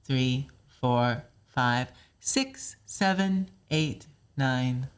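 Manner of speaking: level count, lifted after five, then stepping down; pitch lift, stepping down. Shown as a demonstration. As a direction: lift the middle of the count, descend in steps. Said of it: "add a little lift in my pitch for six".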